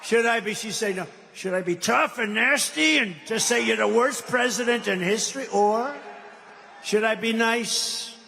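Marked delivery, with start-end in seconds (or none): 1.8-5.5 tough and nasty. Pretend. Demonstrates the tough debating option. 6.8-8.2 nice and calm. Pretend. Demonstrates the nice, calm option.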